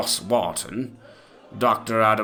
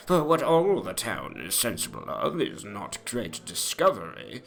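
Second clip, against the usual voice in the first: a lightly voiced, higher, lofty Johnson putting a young man down; Doctor Johnson rebuking; 6 semitones higher than usual. Johnson scoffs at the narrator's doubt about Ossian, a lightly voiced lofty rebuke. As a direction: play the scornful old doctor correcting a naive guest.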